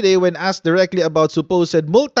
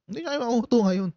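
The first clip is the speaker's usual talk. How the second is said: fast; 5 semitones higher, 7 dB quieter, much faster than usual. Shown as a demonstration. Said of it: "restated fast and soft".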